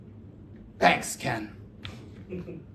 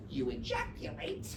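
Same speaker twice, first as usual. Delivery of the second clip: verb use; 11 semitones lower, 13 dB quieter than usual. Shown as a demonstration. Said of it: "a noun and a verb".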